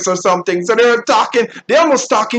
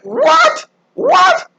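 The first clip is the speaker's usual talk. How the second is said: very high-pitched, disbelieving "what"; incredulous. Retold or imitated. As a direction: squeak it out in mock shock. Retelling stunned reaction to gossip.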